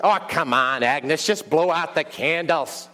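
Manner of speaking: drawn-out New York urging; New York accent. Acted. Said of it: "have a New York accent".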